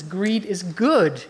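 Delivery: slow, lightly voiced movie tycoon; a hint of Gekko savouring the words; Gordon Gekko. Preacher quoting a film villain, slow and smug. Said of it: "Gordon Gekko says".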